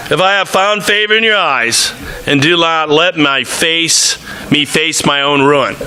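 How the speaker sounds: earnest Bible reading to the congregation; scripture reading. Acted. Preacher reading Numbers aloud, earnest. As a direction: read the passage with rising feeling.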